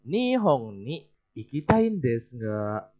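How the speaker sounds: Nihon ni ikitai desu ga kept flat and level, slow; slow, level tune without a rise; flat intonation. Shown as a demonstration. Teacher telling students the line stays flat. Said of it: "Datar ya".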